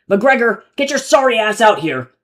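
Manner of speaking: loud, high calling in a hammed-up Terran accent; performative Terran accent. A narrator's reading. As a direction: bellow down the hall in a put-on Terran accent. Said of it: "thick with a performative Terran accent".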